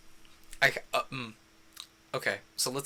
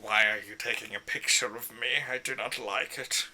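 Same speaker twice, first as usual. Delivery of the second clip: grumpy character. Pretend. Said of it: "do I wanna go with the, like".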